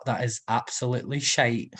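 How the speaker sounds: jokey put-on Scottish accent; laughing at your own Scottish accent. Shown as a demonstration. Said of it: "Is that a good Scottish accent".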